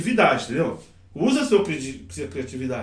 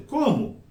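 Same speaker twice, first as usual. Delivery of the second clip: "como" gliding down from a raised start; expressive questioning; 3 semitones higher than usual. Shown as a demonstration. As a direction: demonstrate a questioning "como" with a falling sweep. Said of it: "Parece que é esse jeitinho".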